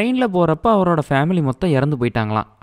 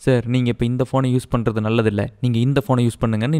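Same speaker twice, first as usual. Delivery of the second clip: lightly voiced helpful policeman, pitched lower; good-guy policeman act; 4 semitones lower than usual. Policeman advising the hero about his phone, mock well-meaning. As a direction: put on a mild show of being decent. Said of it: "ரொம்ப நல்லவனாட்டமே பேசி".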